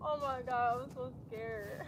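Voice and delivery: soft, nervous confession; scared. Real, not acted. Yoga host dreading the backbend, quietly scared. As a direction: let the nerves sink to a small voice.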